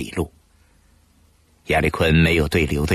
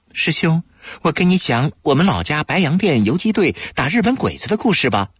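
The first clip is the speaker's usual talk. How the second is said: gentle; 8 semitones higher than usual. A narrator's reading. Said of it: "温和地说".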